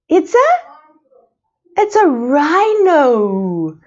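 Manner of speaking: slow, clear teacher prompt; slow prompting answer. Shown as a demonstration. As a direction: stretch each word out slowly for small children. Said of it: "teacher models the answer".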